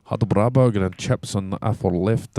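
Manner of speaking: mock Scottish commentator voice; Scottish accent imitation. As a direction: do James in a Scottish accent for a laugh. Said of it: "try and say what James said".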